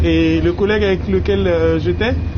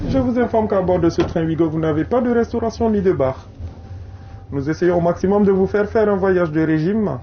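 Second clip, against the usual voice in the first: joking train announcement; announcer voice. Acted. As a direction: deliver it like a conductor's announcement.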